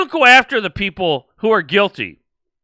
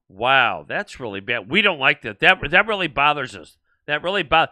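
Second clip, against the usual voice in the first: mock concern; 4 semitones lower, 4 dB quieter than usual. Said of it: "they show you concern".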